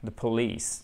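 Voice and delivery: slow English model for learners; measured, stretched stressed syllables; careful model reading. Shown as a demonstration. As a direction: read it out slowly and distinctly. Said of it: "il faut bien faire attention".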